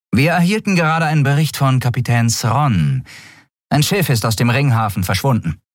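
brief the admiral urgently; lightly voiced officer. A narrator's reading. (knappe Meldung an den Admiral)

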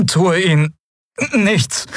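high, slow, lilting "Tue ihnen nichts" with a flat falling "tue"; melodic inhuman voice. Acted. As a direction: echo the words in a strange singsong. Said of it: "sagte das Wesen auf seinem Rücken".

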